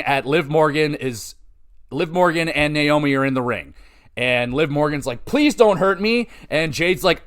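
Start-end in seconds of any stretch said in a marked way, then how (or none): 5.2-6.3 higher-pitched pretend pleading; mock frightened plea. Fan imitating a wrestler facing her attacker, mock pleading. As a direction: plead in a lightly put-on scared voice. Voices Liv Morgan pleading.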